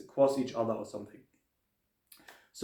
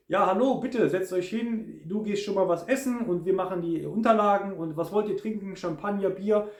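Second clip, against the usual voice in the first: higher, eager host's welcome in German; friendly waiter; 4 semitones higher than usual. Retold or imitated. Turkish waiter welcoming hotel guests in German, bright and friendly. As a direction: play the cheerful receptionist offering drinks.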